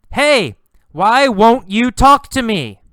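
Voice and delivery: loud, high pleading shout; frustrated yell. Acted. Carlos yelling at the girl who ignores him, loud and high. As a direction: yell after her, frustrated. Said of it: "He yells".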